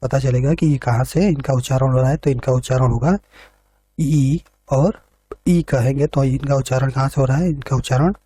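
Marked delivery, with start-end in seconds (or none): 4.0-4.4 ई held as a long "ee"; vowel demonstration. Shown as a demonstration. Teacher showing students where ई is pronounced, vowel demonstration. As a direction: sound out ई on its own, drawn out. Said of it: "ई और ई का अगर हम उच्चारण करेंगे".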